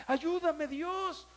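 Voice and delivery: high, loud pleading to God; imitating an anguished hospital prayer; retold cry of pain. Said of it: "de veras era esa expresión".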